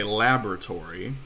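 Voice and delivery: "laboratory" stressed on LAB, the English way; English pronunciation. Shown as a demonstration. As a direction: say "laboratory" with first-syllable stress. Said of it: "in English, you would say".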